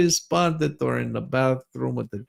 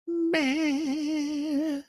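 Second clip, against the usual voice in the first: dismissive meh; 12 semitones higher, 8 dB quieter than usual. Acted. Mocking reply to pregnancy news.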